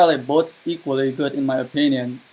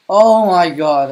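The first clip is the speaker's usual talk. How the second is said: exasperated groan; 3 semitones higher, 7 dB louder, slower than usual. Real, not acted. Raging at an ally in game.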